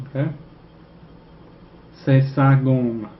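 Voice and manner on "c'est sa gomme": slow, careful French: C'est sa gomme; slow French model. Shown as a demonstration. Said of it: "This is his eraser".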